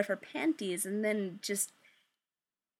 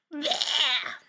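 retching noise; 5 semitones higher than usual. Real, not acted. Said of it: "that was like a retching noise".

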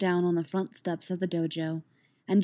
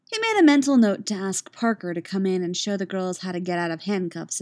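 story narration. A narrator's reading. Reader telling listeners about Elliot waiting, measured narration. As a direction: read the story evenly and calmly.

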